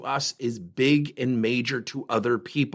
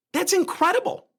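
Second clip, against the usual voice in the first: much higher, laughing through the words; laughing disbelief. Real, not acted. Speaker to audience, a laughing disbelief. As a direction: laugh at how bad the numbers are.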